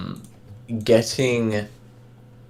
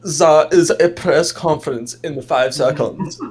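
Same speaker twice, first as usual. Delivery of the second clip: put-on South African accent; 4 semitones higher, 3 dB louder than usual. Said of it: "I'm doing a South African accent".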